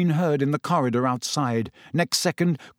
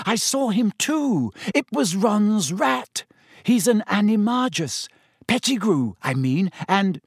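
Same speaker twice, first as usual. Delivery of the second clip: imploring; 8 semitones higher than usual. A narrator's reading. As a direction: implore him in a high voice. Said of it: "gazing imploringly into Fudge's".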